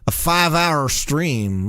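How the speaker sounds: slow drawled five hour stream in a mock accent; put-on accent. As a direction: stretch it out in a goofy accent. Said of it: "what I'm doing with my accent".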